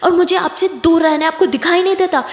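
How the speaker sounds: high, heated rant; angry shouting. Acted. Aditi ranting at controlling Kiran, angrily shouting. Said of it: "आप चिल्ला रही हो".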